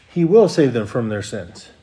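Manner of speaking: "will" hit firmly, the rest falling away; stress on WILL. Shown as a demonstration. Preacher repeating the promise to the congregation, stress on "will". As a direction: lean on "will", then let the line descend. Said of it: "Notice it says he will".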